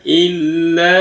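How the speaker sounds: illa with a long held l; doubled l. Shown as a demonstration. Teacher showing the tasydid, illa with doubled l. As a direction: hold the l in illa before the vowel. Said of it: "kalau ada tajwidnya".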